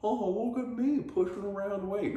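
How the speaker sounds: mock the lazy gym-goers; mocking gym weakling. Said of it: "those other pussies".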